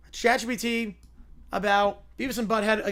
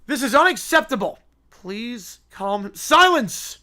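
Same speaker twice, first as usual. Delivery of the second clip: mock outrage; 4 semitones higher, 8 dB louder, slower than usual. Character in the meltdown story.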